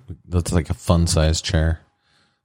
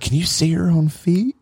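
mocking brother; 12 semitones higher than usual. Brother teasing about weight.

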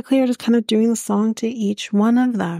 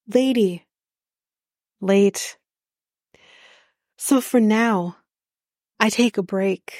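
mock slam poetry; slower than usual. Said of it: "he did this like he was at a poetry slam".

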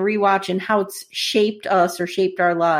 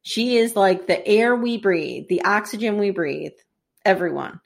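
deliberate speech in a lightly attempted British accent; hint of British, spoken with weight. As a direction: deliver a solemn lecture in a rough British accent. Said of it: "wish I could do a British accent".

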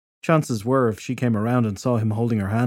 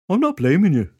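defensive; 8 semitones higher, 5 dB louder than usual. Acted. Druid defends himself.

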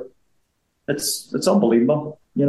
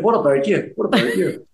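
daughter's attempt at Dad's Belfast accent, pitched up; higher mock Belfast greeting; imitated Belfast accent; 6 semitones higher than usual. Dad imitating daughter copying his accent, playful Belfast accent. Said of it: "my daughter tried to do my accent".

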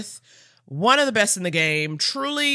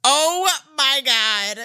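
slow, choked-up gasp of joy; about to cry from happiness; overcome, near tears; 7 semitones higher, much slower than usual. Real, not acted. Host reacts to honor news.

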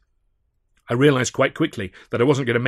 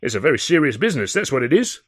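high, earnest bobby voice; stern young policeman; young constable; 4 semitones higher, 6 dB louder than usual. A narrator's reading. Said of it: "said the younger constable".

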